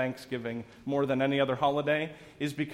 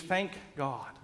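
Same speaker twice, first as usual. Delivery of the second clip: softer relieved Thank God; 3 semitones lower, 8 dB quieter than usual. Acted. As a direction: breathe it out in relief. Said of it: "When we're feeling relieved".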